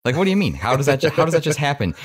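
high-pitched, imitated disbelief; mock incredulity. Host acting out how he would question a name-dropper, incredulous. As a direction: demand an explanation as if astounded. Acts out stunned reaction to name-drop.

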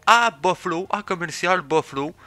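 high, loud amateur play-by-play; Eric, eager commentator. Acted. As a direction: announce the win like an over-excited sidekick. Plays Eric as hockey commentator.

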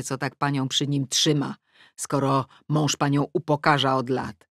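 plain reading voice

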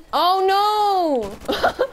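high, loud sudden cry; shocked shout. Real, not acted. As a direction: yelp in real shock.

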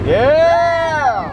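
loud, high happy shout; excited yell. Real, not acted. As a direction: shout it out in delight. Cheers while driving cart.

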